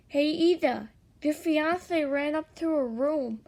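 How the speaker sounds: high, loud tattling voice; loud character voice passing on news; Mineta's alert. A narrator's reading. Mineta calls out to Ida.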